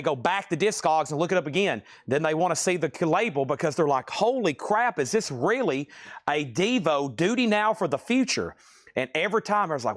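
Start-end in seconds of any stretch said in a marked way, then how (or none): 4.1-8.5 a lightly voiced gasp of disbelief, pitch jumping up on holy crap; imitated collector shock. Seller imitates stunned bidders, mock disbelief. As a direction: play the stunned record collector, half mocking.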